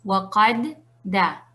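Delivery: waqadda partido en waqad y da; letras separadas. Shown as a demonstration. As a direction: corta waqadda tras la primera d, pausa antes de da. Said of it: "En vez de decir". (waqadda lento, con las dos d separadas)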